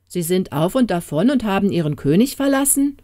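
mildly hammed-up royal indignation; indignant king. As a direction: demand to know, as an affronted king. King learns his people fled.

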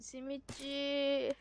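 slow, stretched street seller call; drawn-out vendor cry. Pretend. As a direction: drag it out like a simit peddler.

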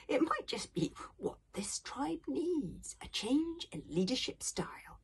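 a hint of a counselling elder; lightly voiced old grandfather. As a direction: lightly play an old man urging change.

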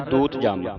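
ਦੂਤ ਜਮ said clearly as a teacher's model; careful demo of ਦੂਤ ਜਮ; correct pronunciation. Shown as a demonstration. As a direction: model the pure reading of ਦੂਤ ਜਮ. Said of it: "ਸ਼ੁੱਧ ਉਚਾਰਨ ਇਸ ਦਾ".

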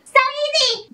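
high, bright exclaim; so easy. Acted. Teacher cheering the student on, excited. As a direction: toss it off as a happy cheer.

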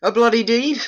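high, loud disbelieving question; scornful surprised retort; indignant echo. Acted. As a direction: fling the words back at her. Retorting mother's accusation.

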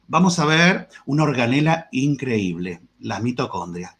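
a hint of a dull, droning teacher; bored teacher. Teacher mocking dull colleagues, flat bored delivery. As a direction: drone it like a bored lecturer. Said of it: "Ya eso me aburrió".

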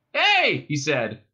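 high, loud hail; calling out. A narrator's reading. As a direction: call sharply across to the cops. Zaphod calls out to cops.

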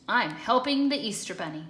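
lightly voiced eager cat, fast; Pete explaining. Pete telling chickens his mission, mild eager pride. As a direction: tell them proudly and quickly. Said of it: "Pete asked".

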